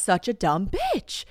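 drawn out, slowly mocking herself; slow self-mockery. Real, not acted. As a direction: stretch it out, self-deprecating. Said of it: "I'm reminded that I am just".

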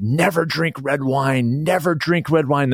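quoting the chef. Retold or imitated. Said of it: "and she said".

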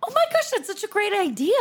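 breathless, high whisper of delight; gasping whisper of excitement; excited whisper. Real, not acted. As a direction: whisper it like you can't believe how good it is. Excited reaction to a podcast idea.

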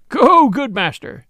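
loud, slow roar. A narrator's reading. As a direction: roar it out heartily. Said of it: "roared Friar Tuck".

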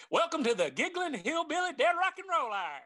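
big mock radio host intro; announcer voice. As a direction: boom it out like a show host.

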